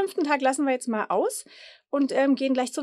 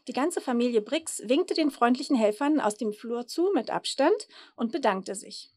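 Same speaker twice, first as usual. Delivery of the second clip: put-on lively storybook reading for children; Geschichte vorlesen; 2 semitones lower than usual. A narrator's reading. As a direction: read it out like a bedtime picture book. Reads children's story aloud. (lebhaft vorgelesene Kindergeschichte)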